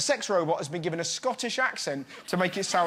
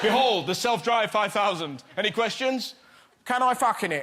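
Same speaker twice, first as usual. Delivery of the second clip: mock presenter. Presenter unveils car, Brit asks.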